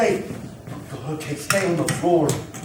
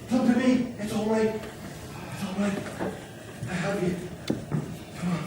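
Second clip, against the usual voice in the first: softly coaxing a survivor; gentle reassurance; 2 semitones higher, 8 dB quieter than usual. Acted. Fireman telling a survivor it's all right, gently reassuring. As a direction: soothe them, voice dropping away quietly. Fireman coaxes someone found in rubble.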